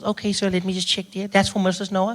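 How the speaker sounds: lightly voiced counter assistant; a hint of polite customer service; pharmacy woman. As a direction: imitate a helpful woman behind the counter. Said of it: "She goes".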